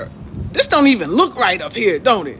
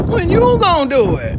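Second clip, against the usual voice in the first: louder; 8 semitones higher, 4 dB louder than usual. Shown as a demonstration.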